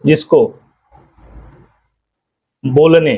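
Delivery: each word spaced out with long pauses for writing; slow dictation. Shown as a demonstration. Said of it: "इसमें बता दे रहे हैं आपको". (धीरे-धीरे, रुक-रुक कर लिखवाना)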